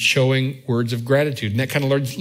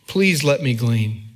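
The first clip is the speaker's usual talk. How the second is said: humble request; 3 semitones lower, slower than usual. Retold or imitated. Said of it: "Look at what she said. Verse seven".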